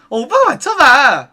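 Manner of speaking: slow, drawn-out coy invitation; coy stalling. Retold or imitated. Hostess making a customer guess her hometown, coy stalling. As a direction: stretch it out playfully to buy time.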